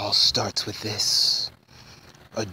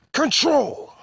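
much higher, loud cry on "control"; roaring shout; 6 dB louder than usual. Acted. Shadow ending his vow of revenge with a shout. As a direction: explode on the last word.

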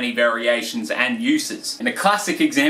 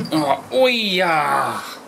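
much higher, yelped oi of sudden pain; 6 semitones higher, much slower than usual. Shown as a demonstration. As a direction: cry out as if you just got hurt. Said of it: "let someone know that you're hurt".

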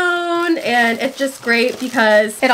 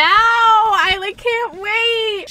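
can't wait; 9 semitones higher, much slower than usual. Real, not acted. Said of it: "I'm so excited".

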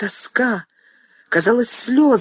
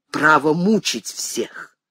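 whisper; slower than usual. Acted. Son accuses mother.

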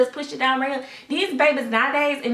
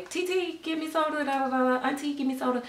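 put-on begging kids; 5 semitones higher, 5 dB quieter than usual. Kids begging auntie for soda.

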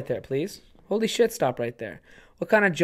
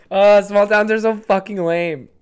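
put-on a bored teenager sneering, louder and slower; mock teen whine; 5 semitones higher, 7 dB louder than usual. Bored teen complains about his small town, sneering.

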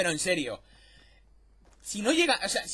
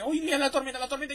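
mock nervous friend; 5 semitones higher, faster than usual. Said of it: "se pone nervioso porque dice".

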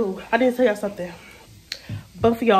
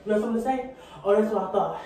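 fake argument; 3 semitones higher than usual. Acted fight with imaginary friend.

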